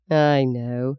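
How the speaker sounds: gently. Acted. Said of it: "he said gently".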